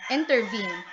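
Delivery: "intervene" with the stress on VENE; light "inter", strong "vene" in "intervene"; rising meter. Shown as a demonstration. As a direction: build to the last syllable of "intervene". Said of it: "from an unstressed syllable to a stressed".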